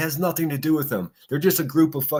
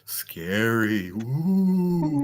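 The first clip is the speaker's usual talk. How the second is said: mock scared; much slower than usual. Real, not acted. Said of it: "mocking the threat I promise".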